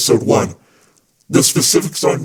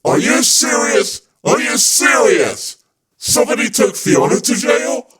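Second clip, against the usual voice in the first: shocked disbelief; 7 semitones higher than usual. Pretend. Host reacting to news of Fiona's arrest, shocked.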